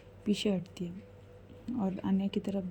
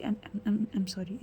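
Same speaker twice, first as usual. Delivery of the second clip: nervous stammer; much slower than usual. Acted. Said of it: "Bhavya थोड़ी सी डर रही थी".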